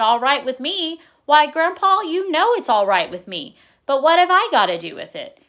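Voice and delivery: put-on boy astonished and thrilled; excited. A narrator's reading. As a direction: burst out in happy disbelief. Boy thrilled, surprised by Grandpa.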